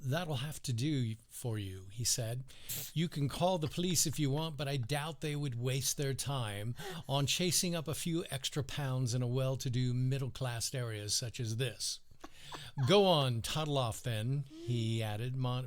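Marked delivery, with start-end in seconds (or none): 0.0-1.8 poor attempt at an English accent; lightly faked English accent. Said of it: "let me do it in my best English accent". 2.9-12.0 put-on amateurish English accent on a snobby passenger; lightly faked English accent. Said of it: "let me do it in my best English accent". 12.9-14.5 put-on dismissive send-off in a poor English accent; amateur English accent, loud at the start. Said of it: "let me do it in my best English accent".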